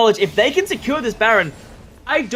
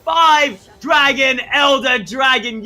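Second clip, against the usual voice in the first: slow hype call; 4 semitones higher, 5 dB louder, much slower than usual. Real, not acted. Caster hypes elder dragon.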